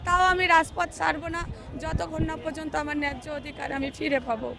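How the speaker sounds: real hoarse voice, strained throat. Real, not acted. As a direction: speak through a worn-out hoarse voice. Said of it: "আমার গলা already ভেঙে গেছে".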